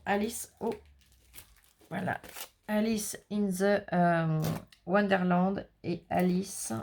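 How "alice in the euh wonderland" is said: slow English with French accent; careful English in a thick French accent; French speaker slowly reading an English title. Real, not acted. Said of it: "mon accent anglais".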